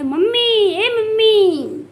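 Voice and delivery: hammed-up yell across the house to her mother-in-law; calling out. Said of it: "अपनी सास को आवाज़ दी है".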